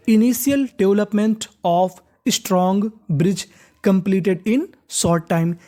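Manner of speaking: slow, careful reading of the English text; slow read-aloud. Shown as a demonstration. Teacher reading the lesson sentence to students, slow and careful. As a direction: read it out word by word for learners.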